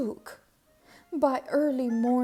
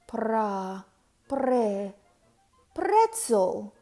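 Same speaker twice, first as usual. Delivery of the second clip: stammered; 4 dB louder, much slower than usual. A narrator's reading. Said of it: "Walter stammered".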